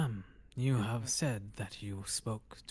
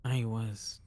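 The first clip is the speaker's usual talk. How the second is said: ordinary talk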